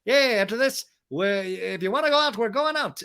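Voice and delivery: high, slow mock Brock voice; lightly played party invite; voicing Brock. Recapper voicing Brock's plan.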